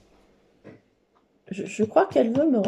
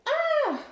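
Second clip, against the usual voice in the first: high gasp before a sneeze; sharp rising breath into a sneeze; sneeze build-up gasp. Real, not acted. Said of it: "je vais éternuer".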